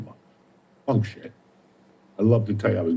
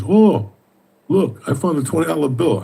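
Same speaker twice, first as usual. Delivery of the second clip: put-on excited kid; 4 semitones higher than usual. Kid finds the twenty.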